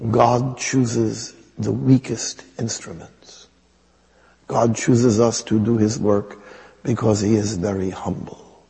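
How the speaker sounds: imitated nun's accent, measured pronouncement; Mother Teresa. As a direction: deliver it deliberately in her put-on accent. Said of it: "I have to use the accent".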